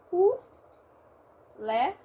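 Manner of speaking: cu-légio with a closed U sound in the first syllable; open-O variant. Shown as a demonstration. Teacher showing one way people say colégio, closed first vowel. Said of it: "tem gente que fala".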